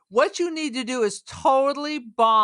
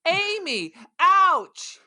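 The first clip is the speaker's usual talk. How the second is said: high, hammed-up yelps with falling ends; gorilla translator voice; 7 semitones higher than usual. Co-host mimics the gorilla being attacked by others, crazy high voice. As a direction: mimic a talking gorilla device in distress.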